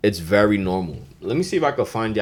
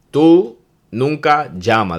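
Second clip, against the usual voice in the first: mock accusing partner; 6 semitones higher, 5 dB louder, slower than usual. Shown as a demonstration. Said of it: "That means call".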